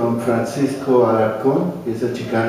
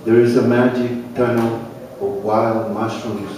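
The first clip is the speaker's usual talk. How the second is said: measured, slightly fuller poetry recital voice; unhurried recital with pauses between images; poem reading. Acted. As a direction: read it like a poet sharing his work at a cafe. Reads his own poem.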